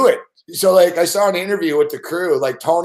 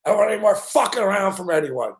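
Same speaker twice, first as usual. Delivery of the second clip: imitating a ranting boss; 3 semitones higher, faster than usual. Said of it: "He's the one yelling out loud".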